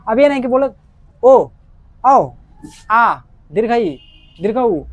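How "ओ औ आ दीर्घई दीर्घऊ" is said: vowels rattled off short and quick, the wrong way; rushed vowel list, too short; clipped vowels. Shown as a demonstration. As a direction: snap each vowel off too fast. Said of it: "ऐसे मत बोलना".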